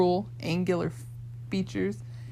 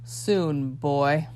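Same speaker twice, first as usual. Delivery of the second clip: snarled; 3 semitones lower than usual. Acted. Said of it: "The fiery man snarled".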